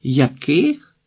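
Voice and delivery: questioning call with a sharp final rise; mild yell. A narrator's reading. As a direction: call back to be heard over noise. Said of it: "заволавши".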